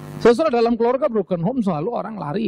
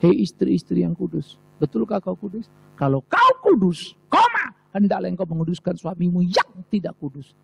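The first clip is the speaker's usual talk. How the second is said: scripture proclamation. Retold or imitated. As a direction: call out to the holy wives like a prophet. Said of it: "Saya suka Alkitab".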